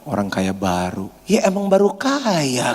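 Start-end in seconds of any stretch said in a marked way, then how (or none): 0.1-1.1 low, sneering mutter of contempt. Retold or imitated. Jealous churchgoer sneers at a newly rich friend, low and scornful. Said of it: "Terus gini dia lihatnya".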